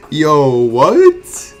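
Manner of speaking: high, loud incredulous outburst; shocked disbelief. Real, not acted. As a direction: yell it in total disbelief. Second surprise drop.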